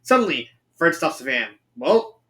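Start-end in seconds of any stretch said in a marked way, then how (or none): 1.8-2.2 high, upbeat cartoon leader announcement; announcing. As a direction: announce it to the whole gang. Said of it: "Fred announces".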